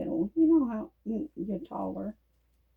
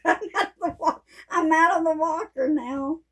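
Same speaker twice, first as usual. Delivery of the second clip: higher, beaming, rising at the end; gleeful repeat; 5 semitones higher than usual. Real, not acted. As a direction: crow about it happily. Repeats news with glee.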